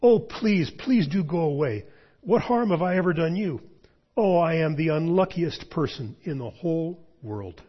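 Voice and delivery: high, loud panicked pleading; frightened boy's near scream, gradually subsiding; almost screaming. A narrator's reading. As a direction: plead in terror, easing into a wail of self-pity. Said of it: "almost in a scream".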